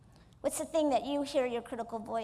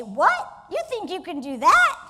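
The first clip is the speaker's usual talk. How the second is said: scornful rising challenge, louder; mocking disbelief; 4 semitones higher, 8 dB louder, slower than usual. Speaker mocks her own goals as the critic, scornful. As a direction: sneer it like a doubting inner critic. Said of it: "You say".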